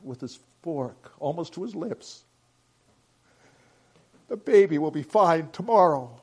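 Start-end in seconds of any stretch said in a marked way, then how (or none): 4.3-6.2 firm, slightly louder reassurance; assured promise to a worried family. A narrator's reading. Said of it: "caught by the assurance in his voice".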